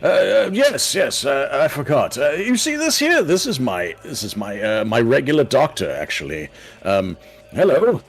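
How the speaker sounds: put-on flustered old man stammering to the gnome. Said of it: "the old man's like".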